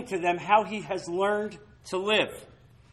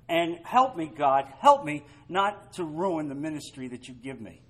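earnest prayer; 4 semitones lower, 3 dB quieter than usual. Shown as a demonstration. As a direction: pray it quietly and sincerely. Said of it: "I've asked God repeatedly".

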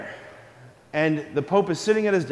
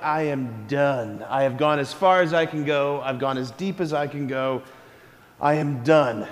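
done with it all; 4 semitones lower than usual. Acted. Acting a smugly finished pope.

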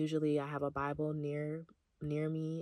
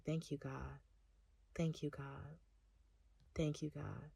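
soft prayer; 6 dB quieter than usual. Retold or imitated. Quiet prayer in bubble bath.

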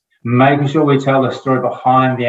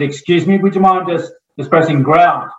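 a little louder, a little higher, a touch impatient; slightly raised, politely impatient repeat; a bit louder; 5 semitones higher than usual. Retold or imitated. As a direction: raise the pitch and push a bit harder so the stranger finally hears. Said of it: "so I said it a bit loud".

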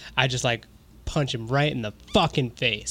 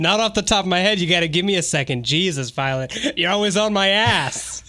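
mock-exasperated New Yorker; hammed-up grumble, dragging out the last words; put-on grumbling character; 3 semitones higher than usual. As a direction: snap back at a nagging partner in character. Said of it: "I don't know where this character came from".

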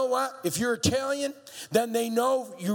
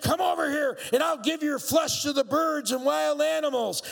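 yelled; 5 semitones higher than usual. Acted. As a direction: yell it across the field. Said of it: "Goliath yelled".

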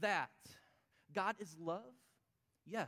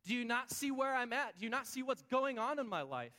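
raised, pleading cry to God; a worshipper crying out to God, louder and pleading; 4 semitones higher, 5 dB louder than usual. Retold or imitated. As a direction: call out to God in desperation. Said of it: "I cry out to God and I say".

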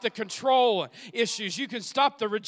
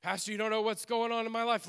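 mock complaint; 4 dB quieter, faster than usual. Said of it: "Let go of the security blanket".

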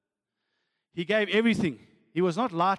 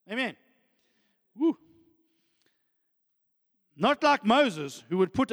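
impassioned preaching; 7 semitones higher than usual. Real, not acted. Preaches with raised voice.

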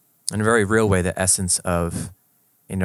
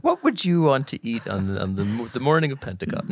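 put-on country accent; 4 semitones higher than usual. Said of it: "in country accents".

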